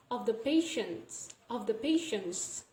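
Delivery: "patients" said as "patience"; dropped T. Shown as a demonstration. Teacher demonstrating deletion, "patients" said without its T. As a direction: leave the T out of "patients", straight from N to S. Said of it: "we don't pronounce the T here".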